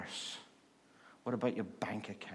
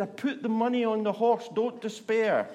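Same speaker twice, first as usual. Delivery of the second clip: much higher and louder, triumphant; gleeful man; 11 semitones higher, 8 dB louder than usual. Retold or imitated. Man tells the nun he bet her gift on a horse, high and loud. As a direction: crow it like a winner. Punchline of man's reply.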